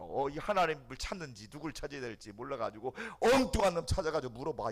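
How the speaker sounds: ordinary talk, nothing marked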